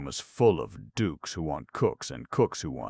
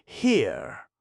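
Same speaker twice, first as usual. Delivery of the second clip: high, loud indignant call; loud high call of an indignant youth; calling loudly; 13 semitones higher, 6 dB louder than usual. A narrator's reading. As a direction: yell after him across the steps. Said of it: "who called loudly".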